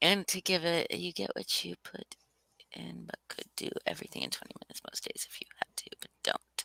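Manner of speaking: very quiet whisper, just under the breath. Talking with another speaker while they put something up: whispering. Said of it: "You're whispering it as I put it up".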